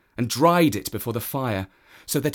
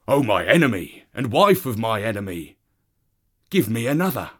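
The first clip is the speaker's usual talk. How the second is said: eager, louder dog voice; a dog begging for more; Wild Dog voice; 4 dB louder, faster than usual. Acted. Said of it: "and he said".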